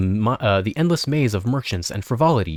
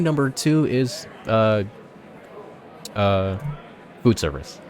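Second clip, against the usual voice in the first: weary worker; 5 semitones higher than usual. Acted. Tired worker venting.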